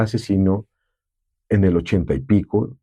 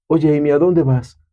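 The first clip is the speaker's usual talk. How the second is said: a touch higher, throat squeezed a little; throat slightly tightened; 4 semitones higher than usual. Shown as a demonstration. Dubbing actor demos his character's voice, throat lightly tightened. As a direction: demo squeezing the throat a bit for a younger sound. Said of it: "era apretar un poquitico la garganta".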